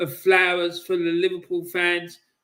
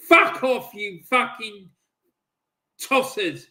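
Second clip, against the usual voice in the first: angry. Real, not acted. Fan swearing at opponents.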